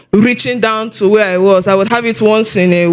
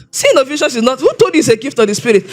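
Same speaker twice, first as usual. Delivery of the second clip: mildly incredulous, quick rebuke; retold scoffing challenge; 2 semitones higher, faster than usual. Man challenges a youth's answer at church, mock scoffing. Retelling a man's scornful challenge.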